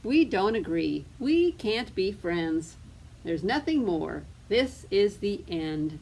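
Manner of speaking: slow, emphatic storybook huff; loud opening, each word stressed; mock quarrel. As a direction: declare it over, mildly cross. Storybook quarrel, friendship declared over.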